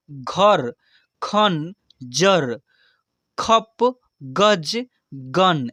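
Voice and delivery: each word read in one go; quick reading. Shown as a demonstration. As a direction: read the whole word at once, no spelling. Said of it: "एक ही बार में उच्चारण कैसे कर दे". (एक बार में जल्दी पढ़ना)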